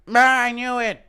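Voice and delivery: high, loud cry of discovery; a loud, high-pitched mock outburst on finding proof; B J Penn. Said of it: "Impression of B J Penn finding wires under his skin".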